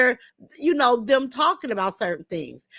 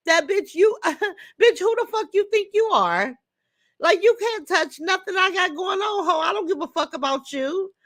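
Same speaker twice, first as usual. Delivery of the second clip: angry call-out; 4 semitones higher than usual. Real, not acted. Calling out a rival on live.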